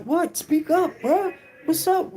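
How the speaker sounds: high, loud demanding voice; impatient inmate. Retold or imitated. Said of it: "And he like".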